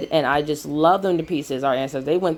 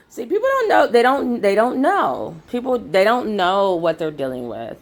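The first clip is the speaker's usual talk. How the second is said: emphatic warning; 4 semitones higher than usual. Real, not acted. Ranting about people underestimating them.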